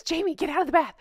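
high playful call; calling out laughing. Real, not acted. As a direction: laugh and shout him out. Calling to boyfriend again.

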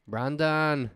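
lightly imitated Mexican accent; put-on Mexican accent. Drunk tourist to his buddy, mock Mexican accent. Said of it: "with a Mexican accent".

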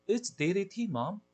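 put-on a boy excited by a new idea; eager boy. A narrator's reading. Boy voiced.

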